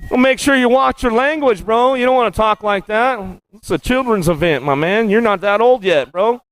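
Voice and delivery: high-pitched teasing telling-off; mock scolding. Real, not acted. Announcer teases a rider about his language, mock scolding. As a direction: wag a finger at him, half joking.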